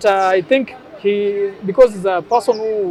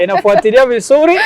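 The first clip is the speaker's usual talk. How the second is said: put-on Swahili with a Somali accent; upbeat Somali-accented Swahili presenter; Them Somali accent; 4 semitones higher, 5 dB louder than usual. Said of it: "imitate them Somali guy".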